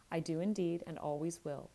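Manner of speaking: earnest, emotional pleading; great emotion. Acted. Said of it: "repeated with great emotion".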